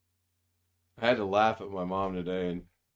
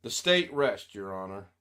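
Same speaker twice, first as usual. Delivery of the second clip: mock prosecutor resting case; 4 dB louder than usual. Mock courtroom closing.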